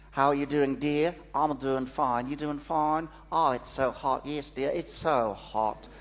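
put-on a light Australian accent on neighbourly small talk. Neighbours chatting over the garden fence, Australian accent. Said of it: "That's my impersonation of an Australian accent".

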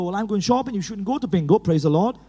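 a hint of a devout old lady, laughing at the end; voicing mother-in-law. Preacher imitates his mother-in-law scolding about bingo, low and lightly laughing. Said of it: "She's old classical Pentecostal".

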